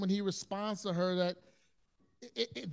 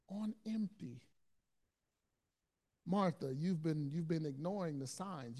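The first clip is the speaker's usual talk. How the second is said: tender yet serious. Retold or imitated. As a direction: ease her down like a caring friend. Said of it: "he's tender with her, yet serious".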